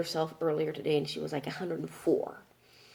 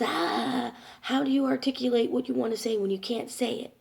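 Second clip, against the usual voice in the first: higher-pitched mock exasperation; imitated frustration; 5 semitones higher than usual. Mom struggling to articulate, imitated frustration. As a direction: act out being stuck for words, higher. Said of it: "she gets very frustrated".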